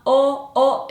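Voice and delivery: "oh" with very round lips; loud, isolated "oh" as a counterexample. Shown as a demonstration. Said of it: "my lips are not very round".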